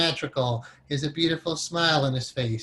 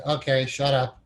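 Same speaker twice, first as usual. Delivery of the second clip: laughing. Retold or imitated. Telling the narrating mind to stop.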